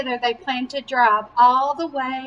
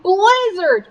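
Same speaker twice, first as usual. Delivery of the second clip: higher and punchy, announcing the storm; dramatic reveal; 7 semitones higher, 4 dB louder than usual. A narrator's reading. Reading to a child, dramatic storm surprise. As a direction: land it like a sudden shock.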